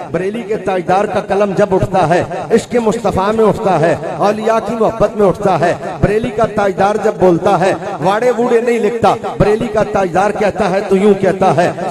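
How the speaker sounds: rhythmic oratory in repeated phrases; rousing preaching. Real, not acted. Preacher extolling the poet of Bareilly, rhythmic preaching. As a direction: build momentum phrase by phrase toward the verse.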